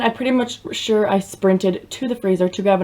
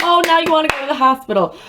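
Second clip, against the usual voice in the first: sarcastic; 7 semitones higher than usual. Retold or imitated. Sarcastic retort to dad.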